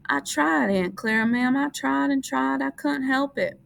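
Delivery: put-on high, childlike pleading; pleading Lenny. A narrator's reading. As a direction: beg like a scolded child. Lenny pleads with Aunt Clara.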